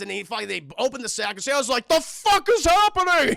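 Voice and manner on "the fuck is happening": high, loud panicked wail; mock terror, words stretched out; terrified Santa. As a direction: cry out in exaggerated fright. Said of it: "He's just terrified".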